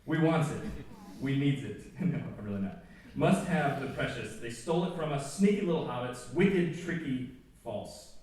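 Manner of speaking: lightly hissed Gollum lines; half-doing the Gollum voice; hint of Gollum. Preacher reading Gollum's lines to students, a hint of Gollum. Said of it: "I'm not gonna do the voice".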